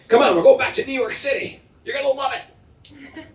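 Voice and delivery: high, fast cajoling; coaxing. Pretend. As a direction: sell the city to the fish. Coaxing a fish to New York.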